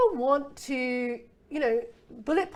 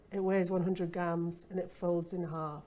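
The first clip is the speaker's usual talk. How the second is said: flat feature statement; 4 semitones lower, 4 dB quieter than usual. Shown as a demonstration. Copywriter reading a hanger spec, flat and dull. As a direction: lower and softer, plain list read. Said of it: "If you were to focus purely on the features".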